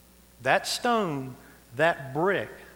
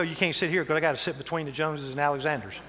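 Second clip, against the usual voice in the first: mock territorial churchgoer; faster than usual. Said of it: "I'm not gonna go".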